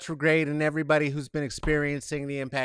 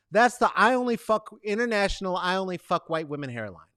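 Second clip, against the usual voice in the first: normal talking voice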